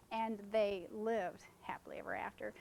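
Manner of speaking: "and they lived happily ever after" whispered, unvoiced and soft; whispered correction. Shown as a demonstration. Reading the last album page aloud, whispered softly. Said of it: "Not "may they".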